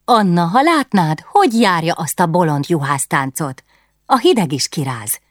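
a lonely queen delighted to chat at last; excited Katalin. Acted.

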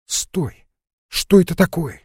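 high, loud sudden alarm; startled alarm. Acted. Lara hears someone on the stairs, startled and loud. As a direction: snap to alert at a noise.

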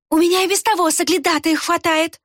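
high, cutting retort; curt snap. A narrator's reading. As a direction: cut him off sharply. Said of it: "отрезала Рукс". (резко отрезала, высоко)

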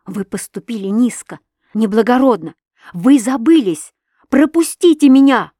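building from firm to a high, loud cry; rising shout. A narrator's reading. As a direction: push her protest up into a shout. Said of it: "закричала я".

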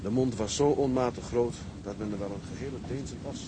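put-on slow, measured reading of an old logbook; reading aloud. A son reads the old logbook aloud, slow and measured. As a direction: read the old ship's log to the sick woman.

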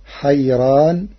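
حيران براء مرققة ببطء; رقق الراء في حيران; ترقيق الراء. Shown as a demonstration. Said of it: "بترقيق وتفخيم الراء". (نطق ورش لحيران)

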